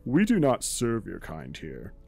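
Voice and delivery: lightly voiced snooty shopkeeper; snooty waiter. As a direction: sniff down at the customer. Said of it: "with a very derisive look and he goes".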